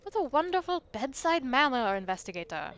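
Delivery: lightly French, dry sarcasm; a mild French ghost, wry; hint of French, sarcastic; French accent. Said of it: "the accent".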